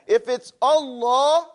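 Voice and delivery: Allah slowly, lam full and round; slow Allah with thick lam; heavy lam. Shown as a demonstration. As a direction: make the lam of Allah big. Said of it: "see how we made the lamb big now".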